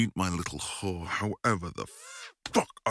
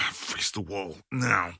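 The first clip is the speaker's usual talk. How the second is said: firm command, louder on now; strict command to obey; stern order; 2 semitones higher, 3 dB louder than usual. Acted. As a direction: snap the order with authority.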